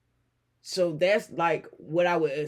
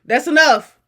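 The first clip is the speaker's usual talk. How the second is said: firm stop; 8 semitones higher, 12 dB louder than usual. Real, not acted.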